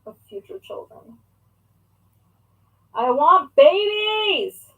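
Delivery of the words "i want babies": loud, drawn-out gush; excited gushing. Real, not acted. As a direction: burst out with slow, higher-pitched longing. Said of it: "explode with excitement".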